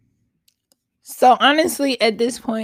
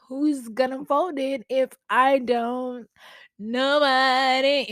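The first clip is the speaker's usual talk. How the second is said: a singer's voice; 3 semitones higher than usual. Acted. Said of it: "In my singer voice".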